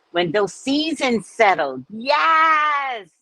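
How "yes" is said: excited yes. Real, not acted. Food praise.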